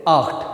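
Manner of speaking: आख्ट with "kh" before the t; German "ch" sound. Shown as a demonstration. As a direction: model आख्ट as "akht". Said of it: "बीच में खा की आवाज़ आ रही".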